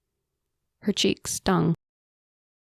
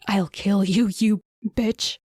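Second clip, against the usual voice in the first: roaring; 2 semitones higher than usual. A narrator's reading. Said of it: "Amira roared".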